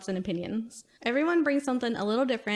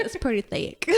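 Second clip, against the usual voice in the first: mock Texas accent. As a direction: stretch "thick" out like "thayk", Texas style. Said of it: "She said".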